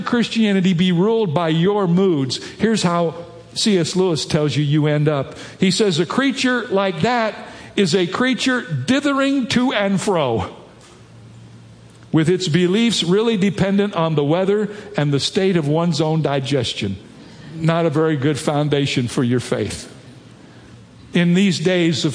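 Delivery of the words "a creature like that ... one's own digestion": higher-pitched reading aloud to a crowd; emphatic quotation reading. Acted. Preacher quoting C S Lewis on his moods, emphatic reading. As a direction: read the quotation out with lifted emphasis.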